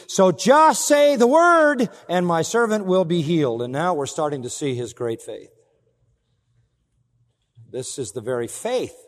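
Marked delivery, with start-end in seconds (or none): 0.1-3.6 very high, loud and drawn out slowly; soaring preacher's cry. Acted. Preacher crying out the centurion's faith, very high and slow. Climax of the quote.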